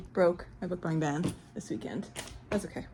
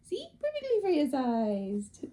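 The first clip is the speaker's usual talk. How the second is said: slow, drawn-out coo; showing off a gift to a pet; cooing pet talk; 5 semitones higher, slower than usual. Real, not acted. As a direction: stretch it out fondly for a pet. Cooing to pet about box.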